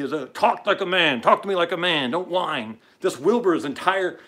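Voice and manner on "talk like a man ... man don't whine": louder, higher commanding father; stern father. Retold or imitated. Host quotes his father correcting him, stern father. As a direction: order it like a demanding dad. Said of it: "my father ... drove into me".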